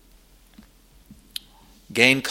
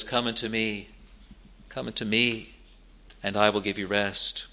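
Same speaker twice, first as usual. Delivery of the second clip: soft, tender call of Christ; gentle inviting call; 2 semitones lower, 6 dB quieter than usual. Acted. Preacher voicing Jesus to weary sinners, soft and tender. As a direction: quietly invite the weary to come.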